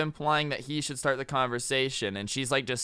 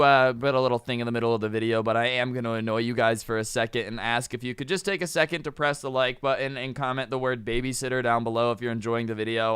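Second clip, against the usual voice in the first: plain reading voice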